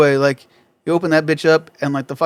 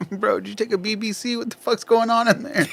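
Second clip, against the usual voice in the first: laughing mock question; 6 semitones higher, 4 dB quieter than usual. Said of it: "quoting himself to the stranger".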